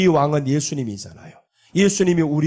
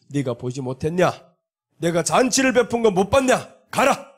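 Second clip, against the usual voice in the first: defiant queen. Acted. Queen refusing the king.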